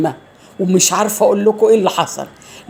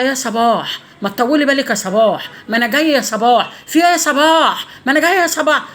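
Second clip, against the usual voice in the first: imitating an exasperated man on the phone, rising higher; mock loud voice; 4 semitones higher than usual. Man on the phone to Sabah, mock loud exasperation. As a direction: mimic his loud phone pleas, building in pitch. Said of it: "بس هو صوته عالي".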